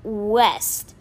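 high, drawn-out guess; slow, uncertain answer pitched high; hesitant. A narrator's reading. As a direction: stretch each word very slowly, unsure. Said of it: "He hesitated".

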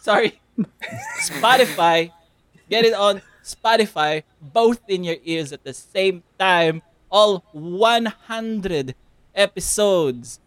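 high, loud and playful. Pretend. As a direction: blast it after the whisper. Loud after whisper complaint.

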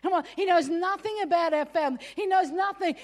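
mock indignation; indignant. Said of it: "And I'm like".

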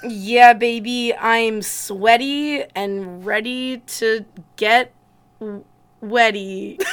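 slow sultry purr. Pretend. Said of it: "it's just my sultry voice".

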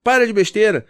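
impatient father scolding his crying son; scolding parent. Retold or imitated. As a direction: snap at the kid to stop crying. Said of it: "chegar pro teu filho e falar assim".

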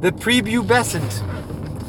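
The prepubescent dragged out slowly; slow careful word. Shown as a demonstration. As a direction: sound out The prepubescent slowly syllable by syllable. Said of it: "That's a difficult one to say".

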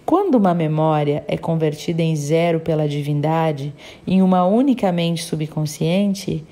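measured, even read-aloud storytelling; audiobook narration. A narrator's reading. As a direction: read the passage out evenly, phrase by phrase. Reads a book aloud.

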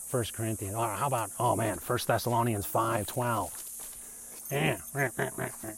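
mock-pious verse-quoter with nagging "eh, eh". People throwing verses at you, mildly mocking. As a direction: lightly send up someone pushing verses. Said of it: "yes, I have my mocking voice on".

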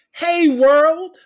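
loud, high greeting to the world; hey world bellowed; big shout. Acted. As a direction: call out to the whole world. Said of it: "I'm trying to get my sucker thing down".

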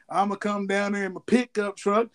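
lightly hammed-up wrestler impression; Stone Cold Steve Austin. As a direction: imitate a wrestler laying out his plans, drawing words out. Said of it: "when he did the Stone Cold Steve Austin".

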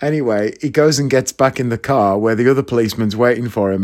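ordinary talk

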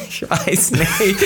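high, very slow coy voice; coy hesitation. Retold or imitated. Retelling how he answered the guy, coy and slow. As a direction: play it shy and coy, drawn out. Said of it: "ich sag so".

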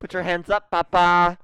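high, loud cop yell at papa; goofy arrest yell; mock cop shout.

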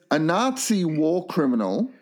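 slow, deliberate movie-blurb reading. Acted. Co-host reads the film synopsis aloud, slow and deliberate. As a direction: read the synopsis like a trailer.

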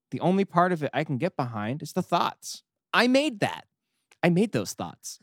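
a hint of a sulky deity; reading God's diary. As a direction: whine it like a needy, self-pitying god. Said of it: "I'm gonna read the diary post".

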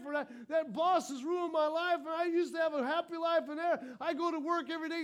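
lightly acted sulky victim; victim mentality. Preacher mocking a worker who blames his boss, whiny. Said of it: "And we have this victim mentality".

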